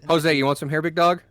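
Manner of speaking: high cooing pet voice; baby talk to cat. Pretend. Teasing her cat with hair, high cooing voice. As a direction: coo at the cat like a puppy. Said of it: "As a joke".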